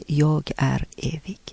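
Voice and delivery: near-whispered, reverent; hushed holy words. Retold or imitated. Repeating Jesus' words from her friend's dream, softly hushed. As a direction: let the words fall to a hush.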